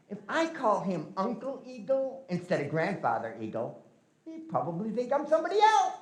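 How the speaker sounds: whisper-free sly scheming to himself; scheming Glooskap. Acted.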